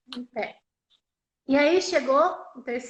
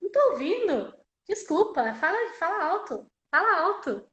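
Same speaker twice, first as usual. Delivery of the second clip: higher-pitched insistent teacher; teacher demanding volume; 4 semitones higher than usual. Retold or imitated. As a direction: imitate a teacher urging a mumbler to speak up. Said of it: "E aí a professora". (professora insistindo, tom mais agudo)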